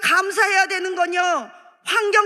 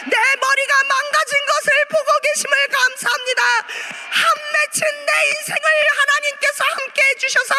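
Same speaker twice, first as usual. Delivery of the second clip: higher, pleading pulpit prayer; impassioned prayer; 5 semitones higher than usual. Acted. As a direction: cry out thanks to God. Leads prayer of thanks at full force.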